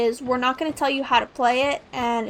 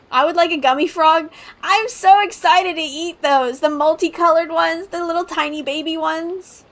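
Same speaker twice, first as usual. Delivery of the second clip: louder, eager candy craving; excited; 3 semitones higher, 5 dB louder than usual. Real, not acted. Gamer gushing to chat about gummies, excited. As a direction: gush about the gummy frogs.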